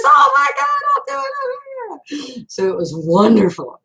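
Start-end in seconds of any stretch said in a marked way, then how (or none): 0.0-2.5 imitating Patty, overwhelmed. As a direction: retell her tearful promise, squeaking high. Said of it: "She goes".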